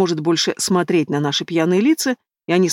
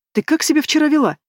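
scolding, pitched much higher; 9 semitones higher than usual. A narrator's reading. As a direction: launch straight into the telling-off. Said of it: "начала с места в карьер Лиля".

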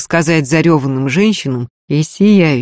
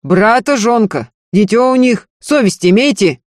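higher, raised voice in protest; yelling; 6 semitones higher, 3 dB louder than usual. A narrator's reading. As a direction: shout indignantly, claim after claim. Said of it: "заорал Егор".

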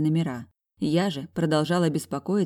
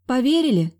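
wary; 8 semitones higher, 6 dB louder than usual. A narrator's reading. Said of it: "спросила я опасливо".

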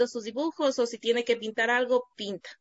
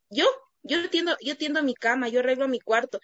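put-on little boy's voice; 2 semitones higher than usual. Son voiced boasting.

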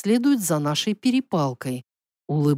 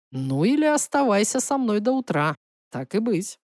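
teasing prince; 3 semitones lower than usual. Acted. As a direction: offer it coolly in a male-character voice. Prince teases the heroine. (слегка пониженный голос насмешливого принца)

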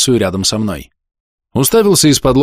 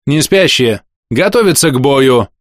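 ringing command; 4 semitones higher, 3 dB louder than usual. Acted. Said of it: "Звенящим голосом отдала".

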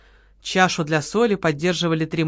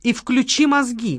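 mocking advice; 5 semitones higher, slower than usual. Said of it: "посоветовала Лола".

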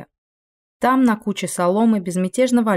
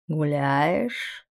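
gentle; 2 semitones lower, 3 dB quieter than usual. A narrator's reading. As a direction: ask it tenderly, softly. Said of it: "ласково спросил он".

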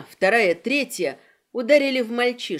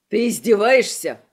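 louder outraged cry; piercing yell; 6 dB louder than usual. Acted. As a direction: scream it in disbelief. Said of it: "пронзительно завопил он".

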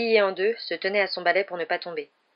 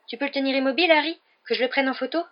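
high, excited request; eager; 7 semitones higher, 3 dB louder, faster than usual. A narrator's reading. Colin asking Harry to hold Ron still, eager. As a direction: ask with eager fascination.

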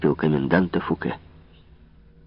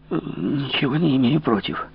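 бормотание; 8 semitones higher than usual. Acted. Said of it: "пробормотал Безмо".

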